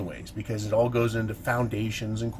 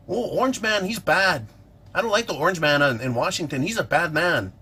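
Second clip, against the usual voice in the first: mocking whiny voice; 5 semitones higher, 4 dB louder than usual. Mocking critics of Trump.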